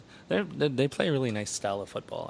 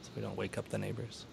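hushed so the neighbors sleep; quiet at night; 9 dB quieter than usual. Real, not acted. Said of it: "we gotta whisper".

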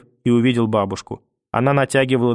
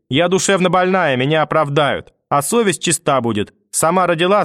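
put-on raised, threatening old woman's voice; menacing grandmother; 4 semitones higher than usual. Grandmother threatens the mother with a lamp, raised and menacing. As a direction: threaten with wild conviction.

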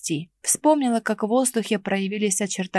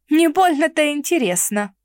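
higher, louder huffy retort; disappointed snort; 6 semitones higher, 4 dB louder than usual. A narrator's reading. Mara scoffs at the necromancer, disappointed. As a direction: toss it off with a scoff. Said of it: "разочарованно фыркнула я".

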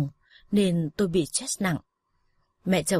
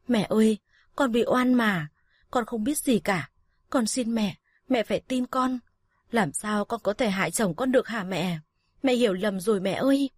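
higher-pitched, urgent plea; desperate pleading; 3 semitones higher than usual. Acted. Wronged daughter-in-law kneeling before her mother-in-law, pleading. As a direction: beg to be believed, voice lifted.

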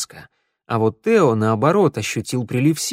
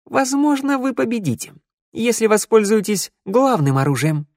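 high, grand proclamation; pronouncing solemnly; 10 semitones higher than usual. Acted. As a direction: declare it like a prophecy. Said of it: "остановился и изрёк".

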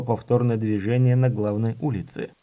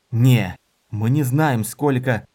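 urgent warning; 6 dB louder, slower than usual. Acted. Dorin restrains the mage.

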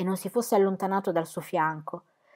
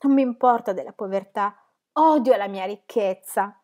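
tearful; 5 dB louder than usual. Acted. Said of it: "Le grandi lacrime sgorgarono".

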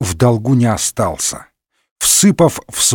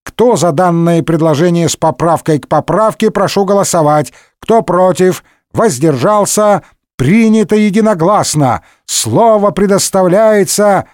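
higher, official running call of a vote; announcement; 4 semitones higher than usual. A narrator's reading. Speaker calling the vote in parliament, official announcement. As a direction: rattle through it officially. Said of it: "объявил спикер".

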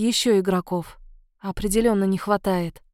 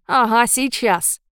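mocking ghost witch; slower than usual. Margo retorts mockingly.

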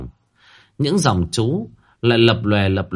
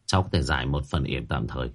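lower, softer mumble to himself; mumbling; 8 semitones lower, 6 dB quieter, faster than usual. A narrator's reading. Tĩnh murmuring in a daze beside the coffin, soft mumble. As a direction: murmur it half-dazed. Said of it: "Tĩnh lẩm bẩm".

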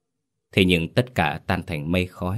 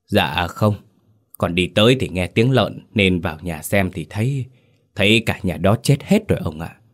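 trembling reply; 3 dB louder than usual. Acted. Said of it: "run run đáp".

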